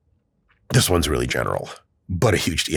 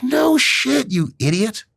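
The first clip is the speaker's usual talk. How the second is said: mock scoff; 12 semitones higher, slower than usual. Scott's mocked reply.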